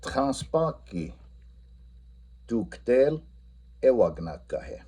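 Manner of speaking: "Transpaki" drawn out, "tuktel" stressed; teacher swapping the object in the Lakota question; slow Lakota question. Shown as a demonstration. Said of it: "if we switched it up".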